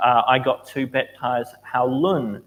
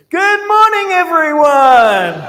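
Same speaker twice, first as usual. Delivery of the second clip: very high, very loud, shrill, booming swooping scream; 10 dB louder than usual. Retelling a man getting out of bed in the bunk room on a silent retreat, imitating someone screaming. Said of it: "He gets out of bed and screams".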